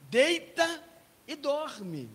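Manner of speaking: loud, high parental command; acted dad laying down the law; stern bedtime order. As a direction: order the kids to bed, punching each word. Father orders children to bed, retold.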